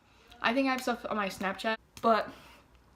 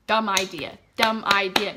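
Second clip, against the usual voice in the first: louder, punched "Dumb idea"; emphatic; 8 dB louder than usual. Real, not acted. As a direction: stress "Dumb" with a hard falling tone. Warning viewers after the story.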